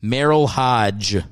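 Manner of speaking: "Merrill Hodge" slowly, with a firm dj ending; careful pronunciation. Shown as a demonstration. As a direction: take "Hodge" slowly, sounding the d. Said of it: "my D's and my G's".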